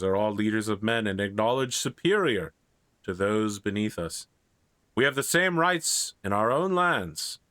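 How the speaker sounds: lightly voiced regal proclamation, measured phrases with pauses; a touch of solemn oratory; young king addressing knights. Arthur addresses the receiving line of knights, lightly regal.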